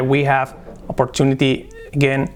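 mock learner saying "We have opportunity again" without "the"; exaggerated mistake. Shown as a demonstration. Teacher imitates the student's error. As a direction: overplay the learner's slip. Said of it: "estoy exagerando un poquillo".

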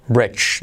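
"Bridge" ending in a single J sound. Shown as a demonstration. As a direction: finish "Bridge" on J, no separate D. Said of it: "lo que suena ahí". ("Bridge" con J al final)

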